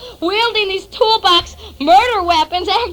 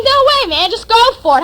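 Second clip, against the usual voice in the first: higher, louder brush-off; emphatic refusal; 4 semitones higher, 5 dB louder than usual. Acted. Narrator refusing to help his friend, exasperated. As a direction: push the refusal out high and forceful.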